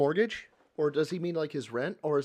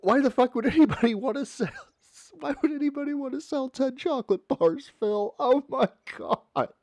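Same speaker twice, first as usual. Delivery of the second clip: pitched way up in disbelief, cracking at the top; exasperated rant; 9 semitones higher, 4 dB louder than usual. Real, not acted. A fed-up viewer asks Phil why, voice high and incredulous. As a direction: throw up your hands in a high, incredulous whine. Ranting about the members goal.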